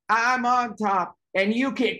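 slow, high playground gloat; mock queen-of-the-hill bragging; gloating taunt. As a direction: lord it over them, drawing it out.

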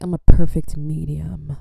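self-assured and matter-of-fact; confident. Retold or imitated. Telling the dress fitter her size, confident and proud. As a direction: state it like a fact you're proud of. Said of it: "I said it like that".

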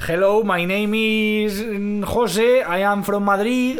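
slow English with a heavy Madrid accent; demonstrating a Spanish accent in English. Shown as a demonstration. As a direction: speak English like a Spaniard from Vallecas. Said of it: "con acento español".

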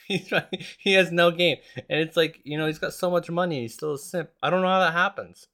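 ranting at a rich guy with no game; mocking rant. Real, not acted.

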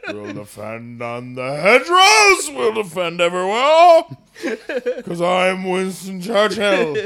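put-on slurred, slow drunk Churchill, lightly done; lightly voiced drunk Churchill, slow; a hint of tipsy Churchill. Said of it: "your drunk Churchill is my favorite accent".

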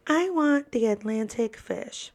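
slow, lightly voiced small boy; a hint of a careful little kid; little boy ordering. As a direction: imitate a young child placing an order.

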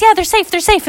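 urgent reassurance. Acted. Woman reassures frantic parents.

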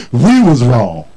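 "We" stressed, falling tune. Shown as a demonstration. Pastor modeling the right apology, stress on "We". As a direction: land firmly on "We".

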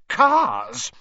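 flashing anger. Acted. Molly firing back at Arthur, high and sharp. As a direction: bite the word off. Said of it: "her eyes flashing".

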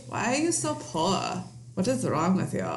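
haughty fake-European socialite accent, lightly put on; a hint of a snooty Eurotrash heiress accent; Anna Delvey accent. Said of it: "It's my Anna Delvey accent".

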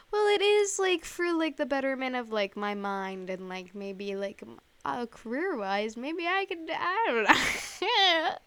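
high start sliding down, hesitant reasoning; mock self-justifying. Host imitating her own excuse for a bad purchase, mock self-justifying. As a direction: feebly talk yourself into it, pitch dropping.

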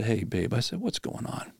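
soft, hushed and gentle; tender. Real, not acted. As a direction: ease her open like you're sitting beside her. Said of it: "looking eye to eye with them".

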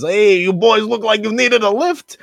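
high, loud, drawn-out call; put-on voice of an eccentric uncle hailing stranded boys; big slow hammy greeting; rescuing uncle character.

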